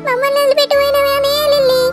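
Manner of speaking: singsong wailing lament; keen for the lost one, stretching line endings; ఏడుపు. Acted. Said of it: "మీ ఏడుపులు road మీద దాకా వినబడతానాయి". (శోకాలు పెడుతూ ఏడుపు)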